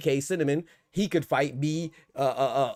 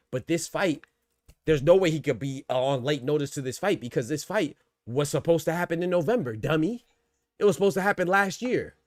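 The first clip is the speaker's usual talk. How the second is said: rising, louder, exasperated rant; heated rant; 4 semitones higher, 3 dB louder than usual. Real, not acted. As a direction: vent it at the commentators, getting louder. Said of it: "I'm done ranting now".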